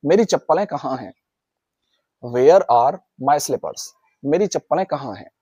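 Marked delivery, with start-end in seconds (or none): 2.3-3.8 slow model sentence. Shown as a demonstration. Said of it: "अपने मुंह से बोलना है".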